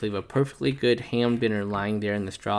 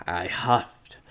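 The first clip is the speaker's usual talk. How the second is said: rising louder and higher; building to a sneeze; 9 semitones higher, 8 dB louder, slower than usual. Acted. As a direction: wind up for the big sneeze.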